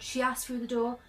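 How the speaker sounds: ordinary delivery, nothing marked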